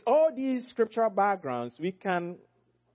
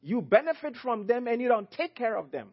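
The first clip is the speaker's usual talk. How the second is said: higher-pitched, stern rebuke in a quoted warning; 5 semitones higher than usual. Retold or imitated. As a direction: deliver a reported accusation sternly, pitched up. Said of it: "He warned shepherds sternly and said".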